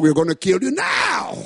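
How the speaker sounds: rebel's death threat, shouted; retold shouted threat. Rebel shouting at the pastor that he will die now. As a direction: shout the verdict at the prisoner. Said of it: "The guy said".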